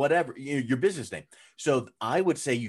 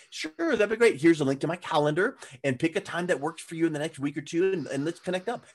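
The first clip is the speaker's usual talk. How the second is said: higher-pitched, obliging phone manner; acted friendly reply; 4 semitones higher than usual. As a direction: play the accommodating expert booking a call. Acts out obliging reply to caller.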